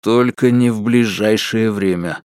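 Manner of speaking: understated grumpy reply; mild grumble. Acted. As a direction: grumble it without raising the voice. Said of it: "буркнул он". (негромко буркнув)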